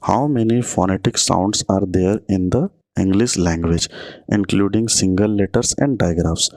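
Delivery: slow, deliberate exam-question read; reading the question aloud. Shown as a demonstration. Teacher dictating a quiz question to students, slowly.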